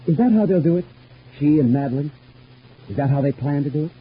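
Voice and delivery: high, urgent accusing questions; paranoid suspicion. Acted. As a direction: demand to know about the plot. Suspects a plot against him.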